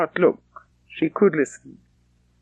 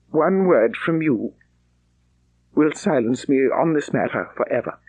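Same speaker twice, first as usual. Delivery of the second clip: Darcy confessing; 2 semitones lower than usual. Acted. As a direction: say it as a proud man opening his heart. Darcy's proposal.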